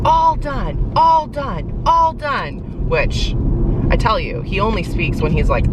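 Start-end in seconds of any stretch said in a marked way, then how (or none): 0.0-2.9 mock-shout a child's repeated protest, high; retold yelling. Mom voicing her upset son yelling: mild mock yell. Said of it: "and was just yelling".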